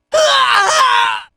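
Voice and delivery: long, high-pitched yell; drawn-out "ah" yelled high; battle cry. Acted. Fighter cries out in battle, long high yell.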